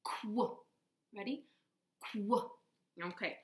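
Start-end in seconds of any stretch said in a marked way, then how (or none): 0.0-0.6 a quick "Qu" with k then w; qu sound. Shown as a demonstration. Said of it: "So Q goes like this". 2.1-2.5 a quick "Qu" with k then w; qu sound. Shown as a demonstration. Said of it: "So Q goes like this".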